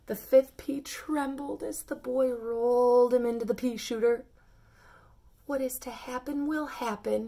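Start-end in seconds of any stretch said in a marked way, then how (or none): 5.5-7.3 sighing. Acted. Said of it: "he said with a sigh".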